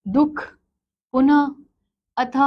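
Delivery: दुख, पुनः, अथ with a breathy half h at the end; half h sound. Shown as a demonstration. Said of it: "आधे ह की भांति होता है". (शब्दों के अंत में आधा ह)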